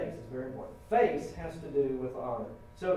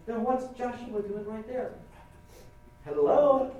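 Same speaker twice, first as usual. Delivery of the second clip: mock incredulous God; 5 semitones higher than usual. God pointing out Joshua standing right there, mock incredulous. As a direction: play God baffled and teasing. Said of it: "I'm sure God is going".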